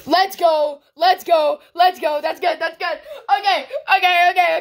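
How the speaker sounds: excited, repeated little cheers; mildly giddy, rapid-fire celebration; getting happy. Real, not acted. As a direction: hype yourself up over a lucky pull. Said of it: "I'm getting happy".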